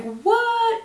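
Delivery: high, drawn-out mock shriek of disbelief; imitated freak-out. Parents see the surprise on FaceTime, imitated high-pitched freak-out. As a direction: act out parents' stunned "what". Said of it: "of my mom freaking out".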